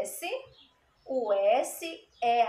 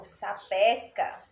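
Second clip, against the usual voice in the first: 1 slow; 4 semitones lower than usual. Shown as a demonstration. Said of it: "O S é inicial".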